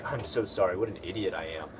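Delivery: mild self-deprecating apology, lightly acted; humble self-blame. Vlogger showing a humble way to take blame, sheepish. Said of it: "you can be humble by using it yourself".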